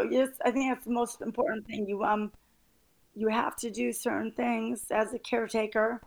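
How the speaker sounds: tearful, half laughing through tears; crying but trying to stay strong. Real, not acted. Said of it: "I'm sorry, I'm crying".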